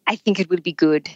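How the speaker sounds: lightly imitated French accent; understated put-on French accent. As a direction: answer like a laid-back Frenchman. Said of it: "in this French accent".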